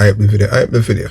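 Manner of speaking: plain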